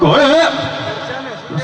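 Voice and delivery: shocked cry. Acted. Inspector shocked.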